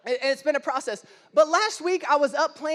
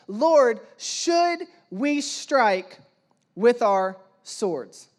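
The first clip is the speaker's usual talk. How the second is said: disciples' question; 3 semitones lower, 4 dB louder, much slower than usual. Retold or imitated. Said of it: "they said".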